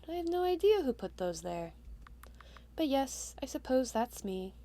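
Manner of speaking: softly spoken kindly witch; a light hint of a lonely, kind witch; gentle witch. The witch greeting her surprise visitor, gentle.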